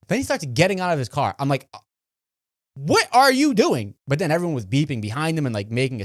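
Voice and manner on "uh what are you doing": slow, high, louder startled question; watching the angry driver step out of his car; alarmed bafflement. Retold or imitated. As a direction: draw it out, wary. Man gets out of car.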